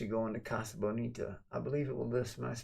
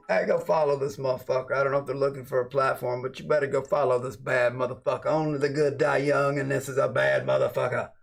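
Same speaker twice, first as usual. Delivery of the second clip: loud shout-out; 3 semitones higher, 8 dB louder than usual. Real, not acted.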